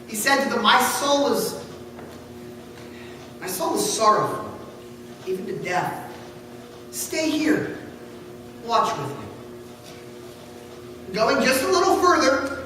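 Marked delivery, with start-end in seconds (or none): 0.6-9.1 low, soft, sorrowful plea; distressed. Acted. Jesus asks Peter, James and John to stay, deeply troubled. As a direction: let the grief weigh each word. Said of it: "greatly distressed and troubled".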